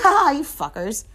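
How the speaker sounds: high, loud taunting laugh-words; mock gloating. Company boss gloating at buyers, mock taunt. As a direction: crow it at the suckers.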